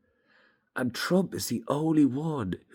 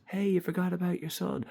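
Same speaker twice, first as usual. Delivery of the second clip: higher-pitched woman's call; 9 semitones higher than usual. Retold or imitated. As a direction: call out to him, up high. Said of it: "you actually hear this woman, she goes".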